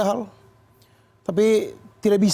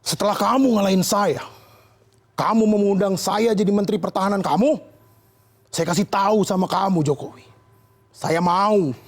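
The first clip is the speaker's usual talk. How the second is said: hint of a stern Prabowo; mock Prabowo. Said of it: "Pak Prabowo membalas".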